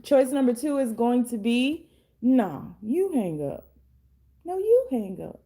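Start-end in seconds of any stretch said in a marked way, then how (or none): 4.5-5.4 higher, playful sweetheart voice; mock lovey phone couple. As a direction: tease like a lovestruck partner who won't hang up. Couple refusing to hang up.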